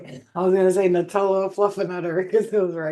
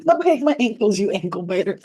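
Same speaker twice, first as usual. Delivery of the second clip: loud, high playful scold; 4 semitones higher, 5 dB louder than usual. Real, not acted. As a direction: yelp at the puppy nipping your ankles. Scolding dog.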